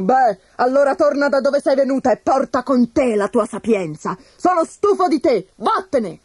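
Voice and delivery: high, cross tsar sending her away; angry dismissal. Acted. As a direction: push her out the door with words. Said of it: "sbottò un giorno".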